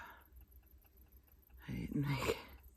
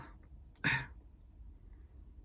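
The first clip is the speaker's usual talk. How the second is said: quiet cough; 5 dB quieter than usual. Real, not acted. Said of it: "Sorry for that".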